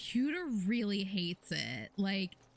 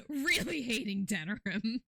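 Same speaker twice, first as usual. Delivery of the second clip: laughing. Real, not acted. Laughing repeat of own complaint.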